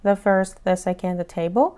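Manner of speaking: "The" said as a short "thuh" before consonants, slow; short "thuh" before first, second, table. Shown as a demonstration. Teacher recapping the before consonants, slow "thuh".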